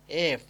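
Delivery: letter-name "eff" with a clear labiodental f; lip-to-teeth F. Shown as a demonstration. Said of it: "উপরের দাঁতের সাথে ঢুকে যাবে".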